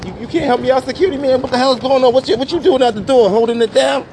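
high, loud call to the guard; shouting over to security. Real, not acted. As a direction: hail him from across the street. Calling out to security man.

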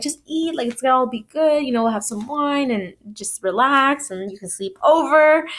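lightly cajoling, rising at the end; encouraging. Retold or imitated. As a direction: retell a man's casual persuasion. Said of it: "encouraging her".

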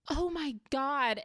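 slow scandalized oh my God; shocked. Retold or imitated. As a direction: drag it out in mock shock. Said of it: "Victoria was like".

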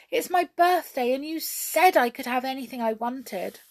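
put-on high, whiny child voice; pleading princess. A narrator's reading. Princess pleading her birthday wish, high whine. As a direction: remind him, wheedling.

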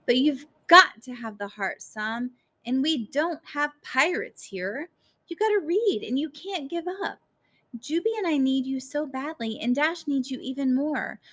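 increasingly worked-up plea. A narrator's reading. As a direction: pitch climbing into a high, insistent appeal. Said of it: "her voice getting louder and louder".

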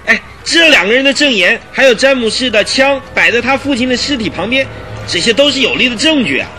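worked-up indignant argument, often pitched high. Acted. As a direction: argue your case with rising indignation. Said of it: "因而愤慨的面红耳赤的赖士德队长". (愤慨地据理力争)

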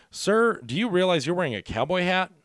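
high, loud put-down; mock polite comeback. Zambrano roasting the biker's hat, loud and high. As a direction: deliver it high and loud like a zinger. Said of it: "Zambrano finally looks up and goes".

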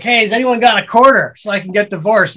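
mock plea to the crowd; calling out. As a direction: call out to strangers. Calling out to the room.

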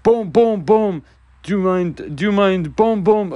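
high, loud mock old Quebecois man banging; loud high-pitched impression of an annoyed old worker; grumpy old guy. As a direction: imitate the old guy hammering and grumbling. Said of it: "this other old guy just goes".

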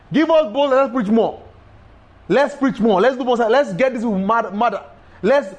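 rising, urgent cry for boldness; fired-up prayer. Acted. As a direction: pray it like a charge into battle. Acted bold prayer after persecution.

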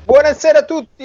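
loud, high hammed-up hello; booming greeting. Real, not acted. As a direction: greet everyone with a big voice. Guest greets loudly, put-on. (saluto rimbombante)

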